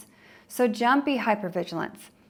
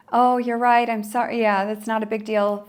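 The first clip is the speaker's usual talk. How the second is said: appeasing; 2 semitones higher, 5 dB louder than usual. Retold or imitated.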